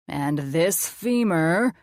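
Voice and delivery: very slow, drawn-out silly monster voice; funny voice. Acted. The speaker playing mad scientist to the kids in a funny voice. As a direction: stretch it out like a cartoon mad scientist.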